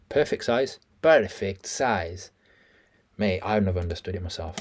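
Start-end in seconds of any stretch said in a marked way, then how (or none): 1.0-2.3 very slow, drawn out; drawn-out mimicry; slow stretched echo. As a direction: savour each word slowly.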